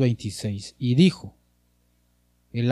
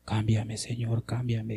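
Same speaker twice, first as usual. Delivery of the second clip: mock lazy plea, softer, barely meaning it; half-hearted prayer; 5 dB quieter than usual. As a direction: toss off cámbiame, Señor as if it costs nothing. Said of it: "No solo medio así". (súplica a medias, sin ganas)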